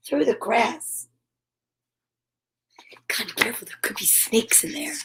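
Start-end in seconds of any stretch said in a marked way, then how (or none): 3.1-4.9 hushed, much softer warning; quiet worried aside. Real, not acted. Reader quietly warning about snakes in the grass.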